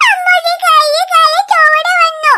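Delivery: put-on slow, sobbing child in pain; crying child. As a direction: drag the words out through tears. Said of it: "കരയല്ലേ". (വേദനിച്ച് അച്ഛനോട് കരയുന്ന കുട്ടി)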